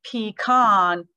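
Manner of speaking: pecan as pee-KAHN; pecan with a long ah; pecan, second way. Shown as a demonstration. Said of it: "So you can say".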